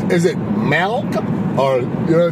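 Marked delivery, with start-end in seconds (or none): 0.0-1.1 slightly modified Scottish "milk", as a question; modified Scottish accent. Retold or imitated. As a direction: ask for "milk" in a carefully adjusted Scottish accent. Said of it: "modify her accent ever so slightly".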